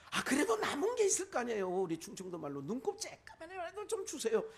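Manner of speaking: high, loud start to begging; hammed-up pestering plea; imploring plea. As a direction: plead for any scrap, acted out. Esau begs father for leftover blessing.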